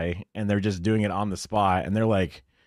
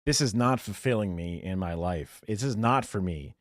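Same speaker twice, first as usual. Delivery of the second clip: mock weary lament; 4 semitones lower, 5 dB quieter than usual. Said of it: "help us reach the stars".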